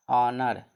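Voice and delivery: "ऑनर" starting on a drawn-out "o"; silent H. Shown as a demonstration. Teacher models a spelled word, "ऑनर" with silent H. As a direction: say "ऑनर" with no h at the front. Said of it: "क्या होता है?".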